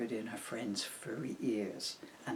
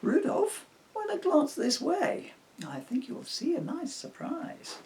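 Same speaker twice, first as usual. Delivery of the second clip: excited call; 4 dB louder than usual. Acted. Emily calls Rudolph to look.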